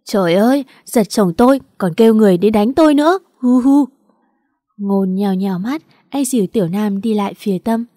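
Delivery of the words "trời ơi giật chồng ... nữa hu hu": loud, fast wailing complaint ending in sobs; hysterical fake crying. Tâm wailing to the crowd, loud fake sobbing. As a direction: wail it out like a victim, getting louder. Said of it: "ả ta nổi điên khóc giống lên".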